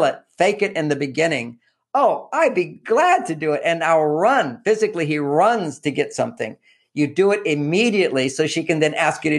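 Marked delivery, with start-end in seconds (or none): 1.9-4.6 eager genie. Pretend. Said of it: "his job as a genie is to really play it up".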